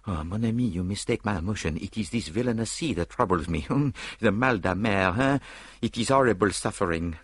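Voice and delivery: lightly voiced seasick Belgian; a hint of a queasy, fussy Frenchman; Poirot voice. Poirot explains his seasickness to Hastings, lightly accented.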